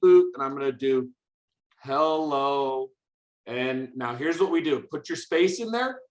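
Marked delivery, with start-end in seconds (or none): 0.0-0.2 loud robotic boop; computer voice. Pretend. Teacher typing out the computer's beeps, loud computer voice. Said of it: "here's how I'm gonna do computer voice". 1.8-2.9 drawn-out robotic hello; computer voice. Pretend. Teacher making the computer greet the user, computer voice. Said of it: "computer voice to say hello".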